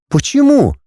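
put-on high, indignant young woman; girl's voice. A narrator's reading. Heroine questioning the dragon, high and puzzled.

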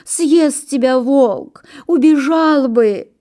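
high, slow lamenting warning; moaning pine. A narrator's reading. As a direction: groan the warning out, long and high. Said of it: "стонет сосна".

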